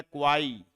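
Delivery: क्वाई drawn out, ending on a long ee glide; separated first syllable. Shown as a demonstration. Teacher showing how it goes, क्वाई as its own syllable. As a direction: hold क्वाई with no t at the end. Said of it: "ये ऐसे है".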